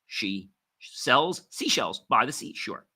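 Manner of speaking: tongue twister picking up pace after the first words; speeding up. Shown as a demonstration. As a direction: start deliberately, then run the rest together. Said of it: "then speed up as you gain control".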